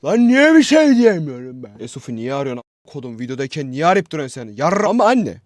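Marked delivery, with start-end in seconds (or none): 0.0-1.7 high, loud frustrated shout; loud yell. Real, not acted. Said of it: "Pardon fazla bağırdık". 4.6-5.3 put-on high, loud whiny kid yelling at mom; shouting child. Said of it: "Pardon fazla bağırdık".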